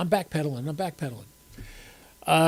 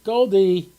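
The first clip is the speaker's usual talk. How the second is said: calling the dog; 4 semitones higher, 5 dB louder than usual. Real, not acted.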